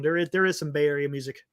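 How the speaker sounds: talking while chewing; biting an apple. Real, not acted. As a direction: mouth full. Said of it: "Sorry, I'm eating an apple".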